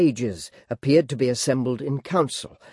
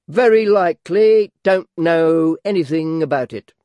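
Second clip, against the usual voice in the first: mouth full; 4 semitones higher, 6 dB louder than usual. A narrator's reading. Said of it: "with his mouth full".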